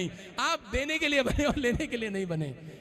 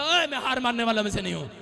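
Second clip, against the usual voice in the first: bold declaration; 7 dB louder than usual. Shown as a demonstration. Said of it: "अपने पड़ोसी को बोलो".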